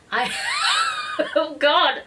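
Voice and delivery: coughing, then a strained oh God; real coughing fit breaking into speech. Real, not acted. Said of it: "Sorry, just had a coughing fit there".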